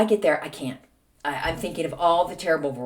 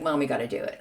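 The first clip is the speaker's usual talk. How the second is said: laughing plea; 6 semitones lower, 5 dB quieter, faster than usual. Retold or imitated. Daughter begging, laugh heard.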